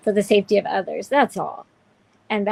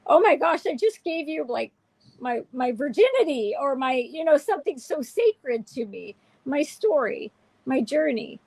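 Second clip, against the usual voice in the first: pitched-up, pleading protest; retold dismay; 4 semitones higher than usual. Hurt sharer to someone trashing their story, pleading. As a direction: plead as if something sacred was trampled. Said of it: "I'm like".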